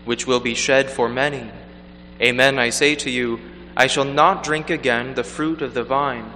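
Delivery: measured liturgical proclamation; Gospel reading. Acted. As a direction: read solemnly from the lectern.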